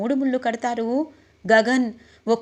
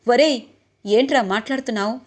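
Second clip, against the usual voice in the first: a loud "ఒరేయ్" then a sharp question; angry rebuke; 4 dB louder than usual. Acted. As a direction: bark at the nephew in anger. Father snaps at nephew. (కోపంగా గద్దించడం)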